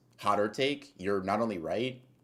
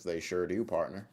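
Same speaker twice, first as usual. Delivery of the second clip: put-on Southern accent. Answering a chatter about Texas Cracker Barrels in a light Southern accent. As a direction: answer like a friendly Texas cowboy. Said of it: "Southern accent low-key gets me".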